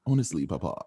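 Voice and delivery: put-on Downton Abbey style British accent. Grown child addressing Papa in costume drama, British accent. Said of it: "if we should keep Downton Abbey".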